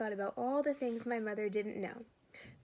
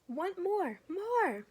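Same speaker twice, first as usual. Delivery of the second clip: put-on high, loud toddler wail for more; 8 semitones higher, 4 dB louder, much slower than usual. Little boy crying loudly for more omelet. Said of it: "Fudge started to cry".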